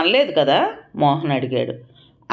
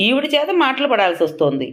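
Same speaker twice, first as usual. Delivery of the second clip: mild wail of a hurt daughter; tearful complaint; 7 semitones higher than usual. A narrator's reading. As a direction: voice rising high into a whimper. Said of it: "వలవలా ఏడవసాగింది".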